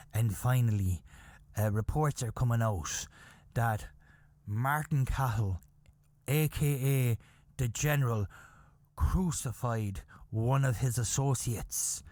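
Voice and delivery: low, measured news delivery with pauses; newsreader. Retold or imitated. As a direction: read it out as a grave newsman. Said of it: "he was delivering the news".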